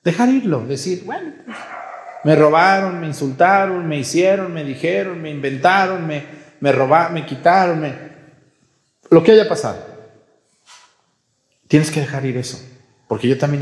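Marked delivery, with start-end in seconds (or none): 1.0-9.8 mock grievance list. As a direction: rattle off the wrongs like a hurt victim. Voicing a resentful complaint list.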